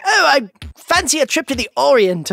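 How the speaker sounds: lightly hammed-up old-timey voice; old-fashioned speaker. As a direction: play at being someone from a bygone age. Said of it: "like, they'd be like".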